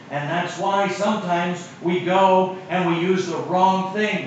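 impassioned sermon delivery with slow, weighty phrases; preaching. Acted. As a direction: preach it, building to the promise. Preaching to the congregation.

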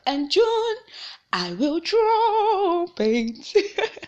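stretched high I will drop it; high drawn-out. Pretend. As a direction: sing out high and very slow. Drawn-out high joke finale.

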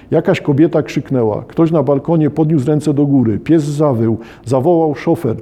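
measured storybook reading aloud; lightly dramatised reading from a children's novel; story narration. Acted. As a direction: read the tale out in short, paced phrases.

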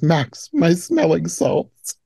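slow, lightly voiced swooning mother; a hint of a dramatic mother calling for salts; mock fainting mother. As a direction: drawl it out like a fainting lady. Quoting the mother's line.

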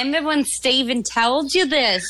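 quick, lilting Australian voice copying the caller's question; spot-on Australian impression. Mimicking the Australian host who phoned, in her Australian accent. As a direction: rattle it off fast like the Australian podcast host. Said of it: "That's exactly how she sounds".

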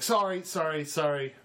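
high, breathless sorry sorry; mock-flustered latecomer; flustered apology. Late player apologizing in character.

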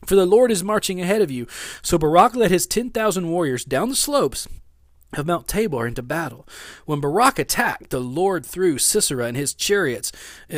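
animated Bible story reading; Scripture reading. Acted. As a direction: read Scripture aloud with emphatic, lifted phrases.

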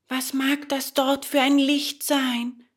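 high, curious puppet voice; high-pitched little puppet; puppet boy Bengele. A narrator's reading. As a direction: wonder aloud at high pitch. Puppet asks about distant light.

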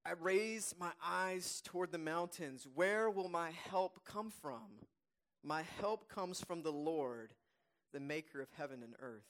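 slow, measured psalm reading; deliberate reading aloud, settling at the end; scripture reading. Real, not acted. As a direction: read the verse slowly, letting each phrase stand.

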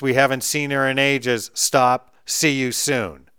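hammed-up telegram message; reading a telegram. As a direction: read it out like an old telegram, hitting each stop. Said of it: "It'd be like".

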